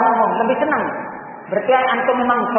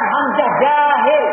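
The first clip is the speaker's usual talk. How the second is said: slow admission; 2 semitones higher, much slower than usual. Shown as a demonstration.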